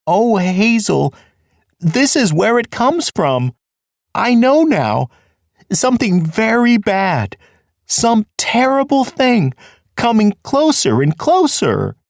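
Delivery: high, frightened whimpering voice; trembling, fearful pleading pitched high. Acted. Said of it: "He began to whimper with fear".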